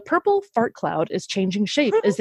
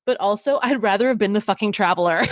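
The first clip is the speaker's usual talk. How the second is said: laughing; faster than usual. Real, not acted. Laughs at own joke.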